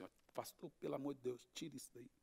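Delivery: very soft, low imitated appeal; hushed retold plea. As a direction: drop the voice right down, imitating a plea. Retells the lawyer's plea.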